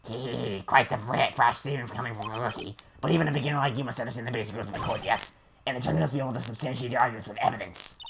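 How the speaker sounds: put-on snickering, condescending old prosecutor; smug prosecutor. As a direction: sneer at the rookie lawyer. Voicing the prosecutor Payne.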